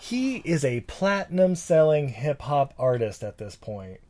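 soft, unvoiced whisper. Real, not acted. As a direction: whisper it like a secret. Whispered aside about Shaq.

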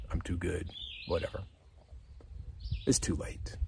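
a defeated whisper to yourself; hopeless whisper. Acted. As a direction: whisper it, giving up. Voicing the despairing listener.

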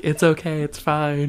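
mock-gentle reassurance to a crying child; put-on sensitivity. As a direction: act out being the sensitive parent. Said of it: "I have to be sensitive".

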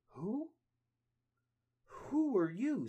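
high, slow, loud demand; startled question. Acted. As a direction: call out to the stranger. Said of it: "says Leonardo".

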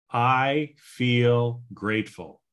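slow, steady and earnest; slow affirmation. Shown as a demonstration. The speaker repeating his gratitude affirmation, slow and earnest. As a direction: say it like you mean it, slowly. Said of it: "so here we go again".

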